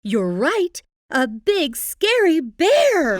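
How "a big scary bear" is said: dramatic reveal. A narrator's reading. Narrator builds to the bear.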